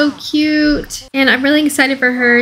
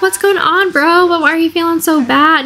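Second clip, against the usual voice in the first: lightly higher, concerned sister; voicing Val; 4 semitones higher than usual. Streamer voicing Val asking her brother what's wrong, mildly higher. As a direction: play Val checking on her upset brother. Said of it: "Val's like".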